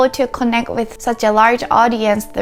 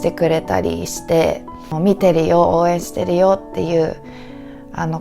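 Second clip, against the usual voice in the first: tearful; 3 semitones lower, faster than usual. Real, not acted. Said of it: "sorry for crying".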